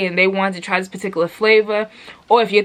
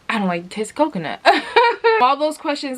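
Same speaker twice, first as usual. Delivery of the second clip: laughing; 6 semitones higher, faster than usual. Real, not acted. Laughs after confession.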